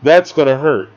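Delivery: lightly imitating Van Damme's thick accent; a mild Van Damme accent impression. Reviewer lightly mimics Van Damme's accent after the shooting. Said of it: "he's like".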